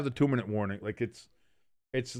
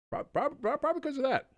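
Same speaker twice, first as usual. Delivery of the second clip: laughing stammer; 5 dB quieter than usual. Real, not acted. Stammering laugh after joke.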